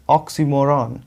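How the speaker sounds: ऑक्सीमोरन as ox-ee-MO-ran; correct pronunciation. Shown as a demonstration. Teacher states the right form, ऑक्सीमोरन as ox-ee-MO-ran. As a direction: give ऑक्सीमोरन an ee and a full "ran". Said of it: "ये होता है".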